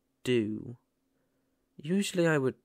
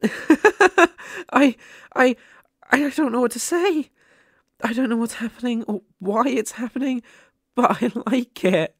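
high, loud and giddy with laughter; bubbling over with happy laughter; overjoyed laughing; 8 semitones higher, 10 dB louder than usual. Acted. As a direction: laugh out the disbelief, much higher and louder. Ghost overjoyed listener can feel her.

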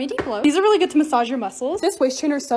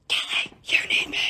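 whisper; 3 dB quieter than usual. Pretend. Product speaking to her.

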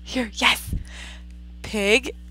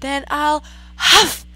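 growling wolf; 9 semitones higher, 10 dB louder than usual. Acted. Wolf threatening the pig, hammed-up growl. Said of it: "growled the wolf".

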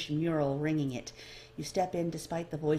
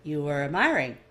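short voice; 4 dB louder than usual. Acted. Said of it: "The voice short".

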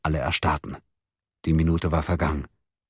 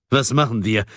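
raised, higher desperate question; calling out; 5 semitones higher, 4 dB louder than usual. A narrator's reading. Man at a loss among friends, calling out. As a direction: cry out for an answer. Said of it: "rief Grung".

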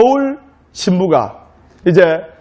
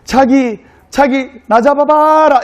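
higher-pitched, playful Seoul bride; 6 semitones higher, slower than usual. Acted. Bride dares groom to chase her, playful Seoul bride. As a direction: tease him in a raised, coquettish call. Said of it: "서울 신부가 서울 신랑에게".

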